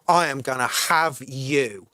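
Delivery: cold low-voiced threat; intimidating threat. Shown as a demonstration. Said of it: "you can still be intimidating".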